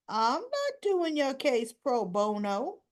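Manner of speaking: drawn-out, emphatic mock disbelief; incredulous refusal. Lawyer to client about working pro bono, incredulous. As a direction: spell it out slowly, as if astonished.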